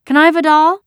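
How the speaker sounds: put-on very high, loud child's voice; eager little girl. A narrator's reading. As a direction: ask like a small kid begging to join. Small girl asks for doll.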